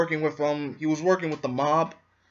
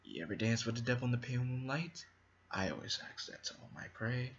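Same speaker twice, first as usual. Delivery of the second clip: Jack Nicholson's Joker line; 3 semitones lower, 13 dB quieter, faster than usual. Retold or imitated. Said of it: "especially with that line".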